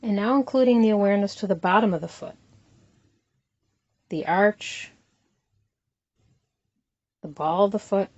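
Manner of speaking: unhurried body-scan guidance with long pauses between phrases; guided meditation. Acted. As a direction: calmly lead them through it, leaving room to breathe.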